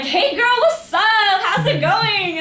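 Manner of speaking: very high, loud squealed hello; mock over-excited girly greeting; hammed-up gushing greeting. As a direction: greet her like a long-lost best friend. Acted gushing greeting to acquaintance.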